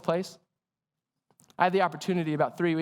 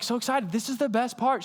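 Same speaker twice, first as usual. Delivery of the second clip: mock excited; 4 semitones higher than usual. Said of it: "I'm just, like, so excited".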